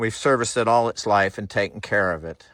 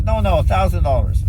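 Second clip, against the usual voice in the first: higher, insistent haggling in his manner; a hint of the old owner's voice, higher and stubborn; mimicking the owner; 6 semitones higher than usual. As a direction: lightly do the seller holding firm. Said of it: "as I can mimic this guy".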